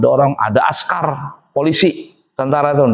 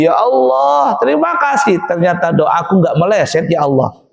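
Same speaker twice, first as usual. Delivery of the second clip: grateful Budi; 3 semitones higher than usual. Acted. Budi thanks God after marrying.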